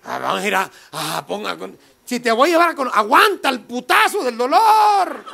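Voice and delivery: mock pep talk to a suffering buddy; hyped-up encouragement. Telling his friend to endure the pain, laughing. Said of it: "Yo dije".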